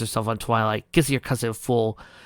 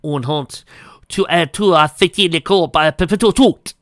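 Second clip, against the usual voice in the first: leering; 6 semitones higher, 9 dB louder than usual. Acted. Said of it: "he said with a leer".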